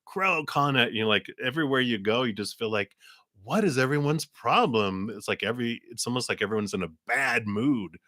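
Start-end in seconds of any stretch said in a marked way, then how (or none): 3.4-5.1 higher, lightly exasperated quote; mock exasperation. Walker hissed at by every animal, exasperated. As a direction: act mildly fed up with everybody. Voices fed-up walker's reaction.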